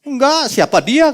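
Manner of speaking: high, slow, dismissive denial; Peter's denial. Retold or imitated. Peter denies knowing Jesus, shrugging it off. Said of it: "kata Petrus".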